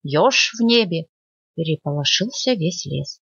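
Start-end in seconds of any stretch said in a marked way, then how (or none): 0.0-1.1 crow shouting. Acted. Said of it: "кричала ворона".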